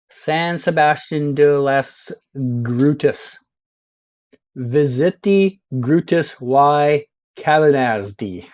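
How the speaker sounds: slowly over-pronounced Spanish sign reading; mock Spanish. Streamer showing off his Spanish to viewers, slow mock Spanish. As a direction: read each Spanish sign like a confident local. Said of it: "I'm gonna read every sign out in perfect Spanish".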